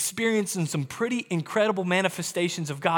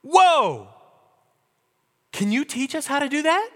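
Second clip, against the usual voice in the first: loud, fast, gushing wow; mock thrilled disciples asking for the secret; mock amazed; 6 semitones higher, 4 dB louder than usual. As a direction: play the eager fan begging for the trick. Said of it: "the disciples didn't go".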